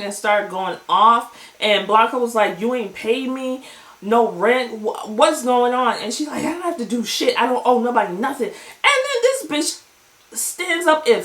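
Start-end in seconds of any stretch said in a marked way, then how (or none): 2.6-6.0 lightly voiced Blanca. 6.4-8.5 lightly voiced haughty Elektra.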